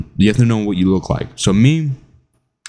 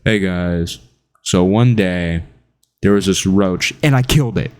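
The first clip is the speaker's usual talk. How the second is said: mock flat monotone telling; deadpan a dull anecdote; monotone storyteller. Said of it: "someone who just".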